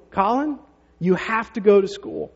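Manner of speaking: a firm, slow mother laying down the rule; mom insisting. Retold or imitated. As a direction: mom telling her son he has to go. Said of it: "Julie says to him".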